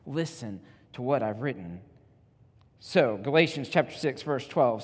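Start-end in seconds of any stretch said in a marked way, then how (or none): 0.0-1.8 softer, measured plea; understated emotional appeal; earnest appeal. Acted. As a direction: plead quietly, spacing out the words. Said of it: "makes this emotional appeal to them".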